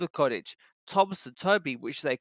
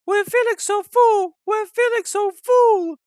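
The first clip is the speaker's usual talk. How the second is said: much higher, louder put-on coach voices; grumbling coaches; 9 dB louder than usual. A narrator's reading. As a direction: grumble it as the tired overloaded coaches. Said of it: "grumbled the coaches".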